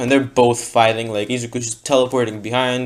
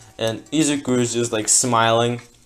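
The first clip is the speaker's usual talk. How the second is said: ordinary talk, nothing marked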